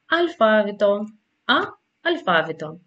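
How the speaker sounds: αλφάβητο, then its first sound Α alone, then αλφάβητο; pronunciation example. Shown as a demonstration. Teacher showing the sound by example, demonstrating Α inside αλφάβητο. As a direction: isolate Α between two separate takes of αλφάβητο. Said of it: "Για παράδειγμα, η λέξη".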